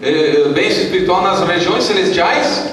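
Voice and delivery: slow, projected verse reading; scripture reading. Acted. Pastor cueing the church to join in, measured declamation. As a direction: read it out, leading up to the shared phrase.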